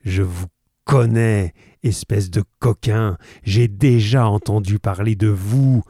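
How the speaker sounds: colère sonore, plus forte; menace furieuse. Acted. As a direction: crache ses insultes en menaçant. Roylott menace Holmes. (menace furieuse du visiteur)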